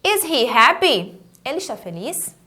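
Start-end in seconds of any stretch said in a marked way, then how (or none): 0.0-1.2 slow, measured question; unhurried classroom demo; model for repeating. Shown as a demonstration. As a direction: model it carefully for learners.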